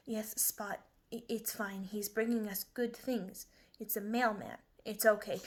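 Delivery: softly reassuring; calm the pup down gently and softly; soothing. Acted. Teacher reassuring dog about the mailman, soothing.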